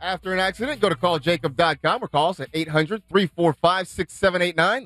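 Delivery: brisk sponsor phone-number read. Acted. Host reading the sponsor tag to listeners, ad-read voice. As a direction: sell the number like a radio spot. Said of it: "injury report is presented by".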